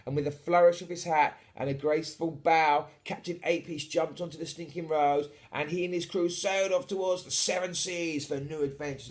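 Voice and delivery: animated bedtime storyteller; story narration. A narrator's reading. Reads the story aloud.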